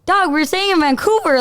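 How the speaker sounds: pointed, disbelieving prompt to a partner; mock exasperation. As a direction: retell it as an impatient correction.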